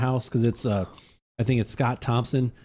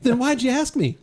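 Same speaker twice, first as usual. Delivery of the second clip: sketch character voice; 10 semitones higher than usual. Retold or imitated. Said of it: "acted sketch exchange".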